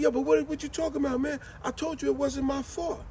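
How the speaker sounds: high, protesting voice; defensive friend. Retold or imitated. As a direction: insist it was not your fault. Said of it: "He said".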